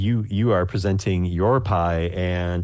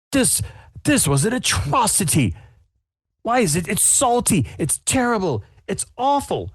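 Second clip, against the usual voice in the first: much higher, scandalised verdict; disgusted judge; 13 semitones higher than usual. Acted. Judge spits out the salty pie, high disgusted voice. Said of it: "Paul just spits it out".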